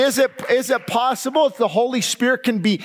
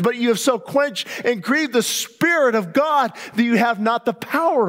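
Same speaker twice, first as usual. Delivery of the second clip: preaching shout; 4 semitones higher than usual. Real, not acted. Preacher rebukes congregation.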